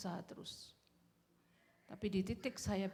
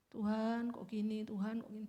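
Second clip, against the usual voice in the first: mock complaining; 2 semitones higher, 4 dB louder than usual. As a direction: imitate someone complaining, stretching the first words. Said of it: "jangan terus mengeluh sama Tuhan".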